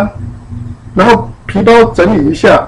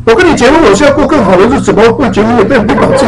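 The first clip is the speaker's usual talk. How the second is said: husband's retort; 4 semitones higher than usual. Retold or imitated. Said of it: "他说".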